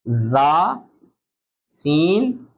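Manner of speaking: जा and सीन with a hissing whistle; whistle sounds. Shown as a demonstration. Teacher demonstrates the whistling letters to students. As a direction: let जा and सीन whistle through the teeth. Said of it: "इनके अलावा किसी में whistle sound नहीं".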